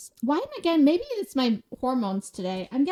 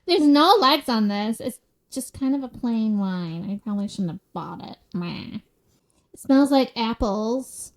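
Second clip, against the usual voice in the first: put-on bougie girl. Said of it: "bougie girl".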